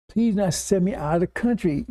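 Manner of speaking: mildly pleading, pitch lifted; earnest begging. Retold or imitated. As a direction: imitate someone begging earnestly. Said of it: "he begged them earnestly".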